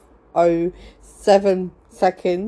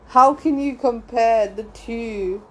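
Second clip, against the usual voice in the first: incredulous; 4 semitones higher, slower than usual. Retold or imitated. Repeats her disbelieving reply to Sharon.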